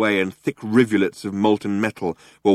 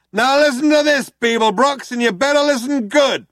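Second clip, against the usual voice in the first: loud, high warning; tough cop on a hailer; 5 dB louder than usual. A narrator's reading. Cop warning Zaphod, loud and high. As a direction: lay down the law.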